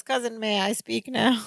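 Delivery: softly spoken polite request; very calm. Retold or imitated. Balki asks his frantic cousin to speak, very calmly. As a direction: imitate patient composure, gently and softly. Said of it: "Balki very calmly says".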